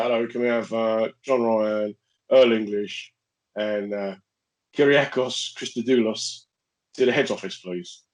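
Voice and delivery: lightly imitated school tannoy; spaced-out announcer's summons, names read slowly; mock school announcement. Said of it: "Just come over to tannoy".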